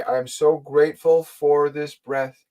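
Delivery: measured, drawn-out affirmation; slow, deliberate. Shown as a demonstration. Guide repeating the breathing exercise for a listener, slow and deliberate. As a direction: say the thought slowly, with intention. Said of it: "slowly and deliberately breathe with that intention".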